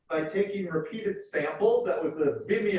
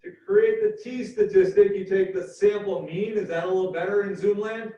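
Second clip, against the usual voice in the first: raised voice; 4 dB louder than usual. Real, not acted. Lecturer making sure Zoom students catch it, raised voice. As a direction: project loudly to the remote listeners. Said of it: "Why am I shouting?".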